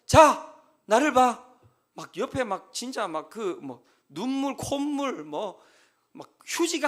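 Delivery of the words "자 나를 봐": loud commanding yells, slow and forceful; shouting at him. Retold or imitated. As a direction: shout him out of his crying like a stern pastor. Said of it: "계속 소리 질러야 돼요".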